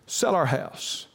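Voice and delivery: stretched slow, each word pleading; slow drawn-out plea. Retold or imitated. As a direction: draw out "Sell our house" slowly. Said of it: "That's what we prayed every day".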